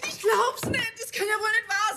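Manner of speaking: crying out. Acted. Shocked at ruined cake.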